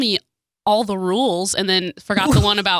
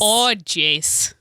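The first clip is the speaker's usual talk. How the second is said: "Oh, jeez" in a broad Minnesota twang; Minnesota accent. Shown as a demonstration. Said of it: "do it in a Minnesotan accent".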